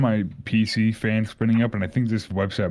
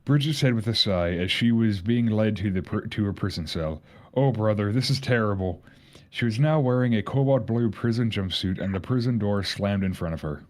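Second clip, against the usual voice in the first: put-on light Irish accent reading. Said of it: "I'm gonna put on the Irish accent".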